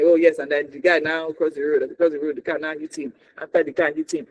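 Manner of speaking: flat, disengaged retelling of a movie; mock lifeless storytelling; not giving it. Shown as a demonstration. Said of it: "you're not giving it".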